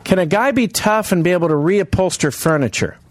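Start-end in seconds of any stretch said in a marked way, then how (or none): 0.0-1.5 high, hammed-up crowd address; mock stand-up comic. Host to listeners laughing on the road, hammed-up comic. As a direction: warn the audience like a cheesy comic.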